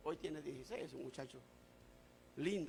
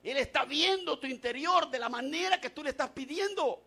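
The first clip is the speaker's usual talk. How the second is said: raised preacher's delivery, pitch lifted; forceful preaching; 5 semitones higher, 10 dB louder than usual. Real, not acted. Preacher turns congregation to the book of Esther, forceful preaching. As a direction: declare it firmly to the congregation.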